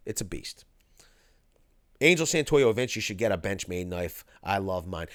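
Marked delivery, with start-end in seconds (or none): 0.1-0.6 whisper. Real, not acted. Bragging about his computer.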